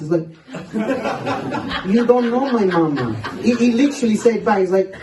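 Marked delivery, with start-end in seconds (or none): 1.9-3.1 put-on mildly indignant kid, pitched up through a laugh; lightly acted childish protest. Innocent boy answering a schoolmate's insult, mildly indignant.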